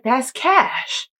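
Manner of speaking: high, bright mock gasp; high mock realization. Realizing mid-typing that cashmere spells cash, high mock voice. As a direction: play it like a silly lightbulb moment. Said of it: "I was like".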